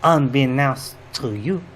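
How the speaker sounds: mock-dramatic reveal in a hammed-up French accent; a sly French-accented confession; host reveals he is from another universe, in mock French; fake French accent. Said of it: "we all have this outrageous accent".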